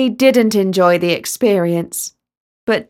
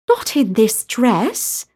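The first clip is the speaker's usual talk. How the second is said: slow protest; slower than usual. Acted. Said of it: "protested Talia".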